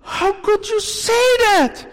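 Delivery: loud, high, hurt shout; a mother shouting at her daughter, hurt and loud; mother's hurt shout. Pretend. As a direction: yell back at the crying daughter. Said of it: "Shall mother say".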